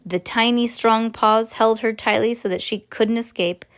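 ordinary delivery

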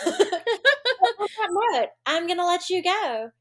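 laughing. Real, not acted. Laughing while signing off.

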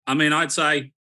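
put-on a light, half-hearted Australian accent; a casual Aussie "mate" accent that stays close to his own voice. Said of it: "my best Australian accent for you".

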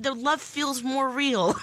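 laughing. Real, not acted. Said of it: "say it again without laughing".

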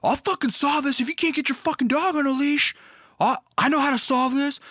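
high strained mock yell of threats; retold aggro threat. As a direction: imitate the dad storming out with a bat. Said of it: "with a bat going".

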